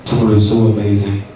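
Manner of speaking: spooky storytelling voice; ghost voice. Pretend. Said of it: "turn on my ghost voice".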